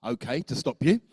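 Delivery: slightly gentler. Shown as a demonstration. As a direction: ease them to a stop gently. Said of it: "Slightly gentler".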